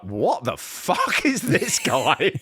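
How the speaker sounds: slow, drawn-out incredulous reaction; baffled disbelief. Retold or imitated. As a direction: imitate baffled disbelief, stretching out each word. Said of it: "they are like".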